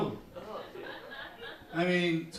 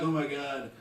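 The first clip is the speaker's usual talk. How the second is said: mock fan; 5 semitones lower than usual. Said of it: "driving my car and being like".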